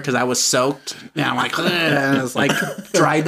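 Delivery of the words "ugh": imitated "ugh" of disgust; disgusted groan. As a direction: groan as if soaked and grossed out. Disgusted at being soaked.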